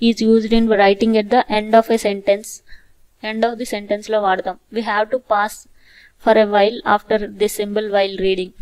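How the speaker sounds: very slow, careful reading; slow dictation. Shown as a demonstration. Teacher dictating the full stop rule, very slow. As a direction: read each word slowly.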